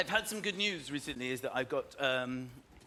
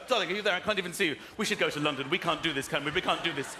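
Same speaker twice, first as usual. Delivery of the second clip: mock panic; 4 semitones lower, faster than usual. Lost in the dark, panicking.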